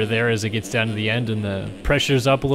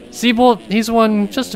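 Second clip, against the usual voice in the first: excited; 9 semitones higher than usual. Real, not acted. Hyping the new leader.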